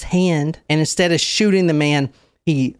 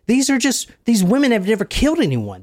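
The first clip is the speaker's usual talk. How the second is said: ordinary delivery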